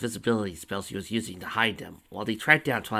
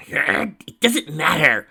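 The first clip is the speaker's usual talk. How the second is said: mild insistence; 7 semitones higher, 11 dB louder, much slower than usual. A narrator's reading. Tracy insists, voiced character.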